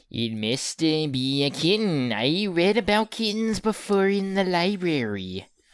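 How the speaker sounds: put-on squeaky mouse voice. Doing a voice for his fantasy character Despo, a squeaky mouse voice. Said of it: "Give him like a squeaky mouse voice".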